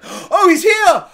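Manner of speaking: high, loud, slow mock gasp of delight; mock fan excitement. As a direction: play the overjoyed fan, sarcastically. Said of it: "it's just like".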